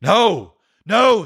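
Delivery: begging the spirit; pleading Scrooge. A narrator's reading. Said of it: "said Scrooge".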